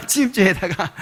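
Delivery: 침입죄에다가 said again through a chuckle; amused repetition; laughing repeat. Shown as a demonstration. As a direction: laugh as you repeat the charge. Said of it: "주거 침입죄에다가".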